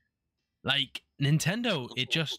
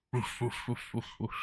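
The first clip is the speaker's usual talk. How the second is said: imitating barking; 5 dB quieter, faster than usual. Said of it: "hear my fucking dogs erupting".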